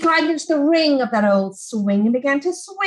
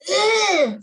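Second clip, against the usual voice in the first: disgusted ugh; 7 semitones higher than usual. Acted. Sarah disgusted at cow poo.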